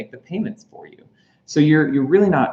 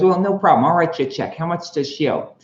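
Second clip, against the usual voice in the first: cocky Happy; 5 semitones higher, faster than usual. Retold or imitated. Happy offers to pay.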